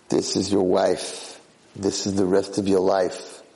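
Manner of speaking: slow, deliberate verdict; measured, final decree; pronouncing a sentence. Acted. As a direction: spell out his fate slowly. Masters pronounce his fate.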